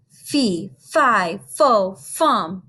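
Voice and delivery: gentle read-aloud giant boom. Acted. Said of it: "Then a voice boomed".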